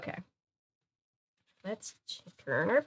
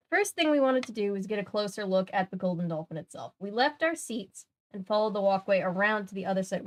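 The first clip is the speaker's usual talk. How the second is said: story narration. A narrator's reading. Reads story aloud.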